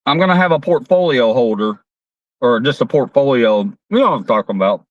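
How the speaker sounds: talking through a mouthful of food; chewing while talking; mouth full. Real, not acted. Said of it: "I'm eating with my mouth full".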